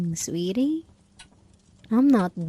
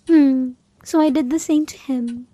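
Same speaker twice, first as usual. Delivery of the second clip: menacing reveal; 5 semitones higher, 6 dB louder than usual. Acted. Revenge reveal.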